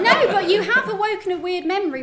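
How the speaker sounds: 笑いながら; laughing. Real, not acted. Amused at recalling Asterix.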